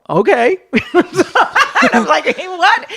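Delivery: high, loud laughing disbelief; laughing okay. Real, not acted. Comic telling how heckler offered money, laughing.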